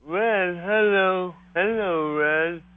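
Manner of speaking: high bird talk. Shown as a demonstration. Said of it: "try to make him to talk".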